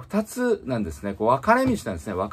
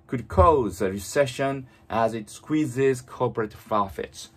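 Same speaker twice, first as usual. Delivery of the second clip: very slow, fully articulated English reading; read-aloud model; much slower than usual. Shown as a demonstration. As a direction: move the lips fully, reading slowly for shadowing. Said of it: "本当に大きな声で唇を思いっきり動かして". (口を大きく動かしてゆっくり音読)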